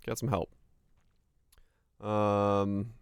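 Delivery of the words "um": ordinary talk, nothing marked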